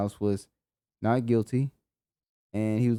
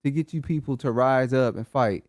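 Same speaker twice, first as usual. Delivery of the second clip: imitating fed-up provokers, starting high then settling; exasperated goading; 3 semitones higher than usual. Speaker voices provokers asking what it takes, exasperated goading. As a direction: act out an exasperated demand. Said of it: "They're like".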